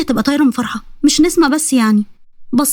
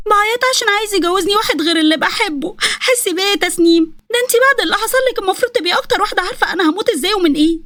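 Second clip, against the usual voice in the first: crying; 7 semitones higher than usual. Acted. Nesma begs Tasnim to feel for her, crying. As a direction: whine it out through theatrical tears. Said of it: "بتعيطي ليه؟".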